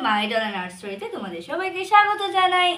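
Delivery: bright storyteller greeting the little ones; sing-song host voice opening a kids' story; cheerful kids' host. Acted. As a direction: welcome the children like a friendly show host.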